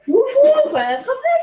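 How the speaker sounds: loud high call across the room. Real, not acted. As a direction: call the name out sharply. Calling the dog to fetch.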